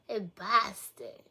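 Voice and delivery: slow, hammed-up Boston accent; mock Boston accent. Streamer teased about an accent, slowly mocking Boston. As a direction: drag out the Boston vowel. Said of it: "where's your Boston accent".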